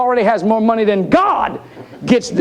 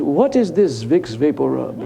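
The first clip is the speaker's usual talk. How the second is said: low, slow mock bishop voice; imitating a baffled bishop, drawn out; bishop's aside; 7 semitones lower, slower than usual. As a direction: lean over and ask in a low, puzzled drawl. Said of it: "bishop leaning over to the vicar general".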